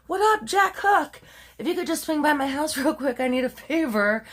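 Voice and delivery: high-pitched, put-on teen girl calling her boyfriend; mock casual phone greeting. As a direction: imitate a girl breezily asking a favor. Voices daughter phoning her boyfriend.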